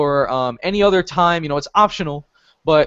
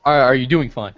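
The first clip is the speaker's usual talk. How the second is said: slower, clearer repeat of the question; measured, lower-key check-in; said slowly on request; 3 semitones lower than usual. Real, not acted. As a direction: spell the question out more carefully. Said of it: "but say it slowly".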